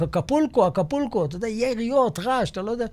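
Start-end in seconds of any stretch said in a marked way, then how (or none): 0.0-1.2 half-voiced yell, higher pitch; retold shout. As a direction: imitate calling out a code word, falling at the end. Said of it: "אני צועק".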